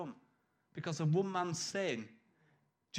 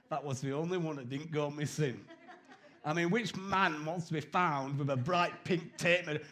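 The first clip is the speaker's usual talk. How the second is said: laughing. Real, not acted. Joking about Dawn's pink tape.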